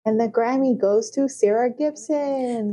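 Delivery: slow, grand award announcer. Pretend. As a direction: announce the winner slowly.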